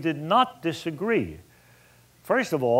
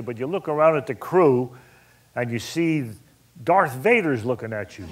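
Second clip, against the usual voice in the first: usual speaking voice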